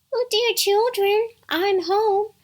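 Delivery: very high mother-goat falsetto; wolf putting on a sweet mummy voice; soft, tender imitation. A narrator's reading. Wolf poses as Mother Goat at the door, tender falsetto. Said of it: "made his voice soft and tender".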